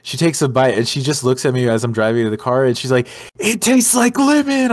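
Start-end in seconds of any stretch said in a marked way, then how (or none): 3.4-4.7 mock girlfriend voice.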